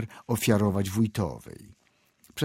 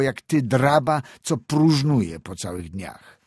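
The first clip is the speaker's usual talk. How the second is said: higher-pitched, lightly voiced stern reprimand; moderately raised, severe telling-off; stern scolding; 5 semitones higher, 4 dB louder than usual. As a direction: scold the lad sternly, pressing each question. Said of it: "rzekł mu surowo".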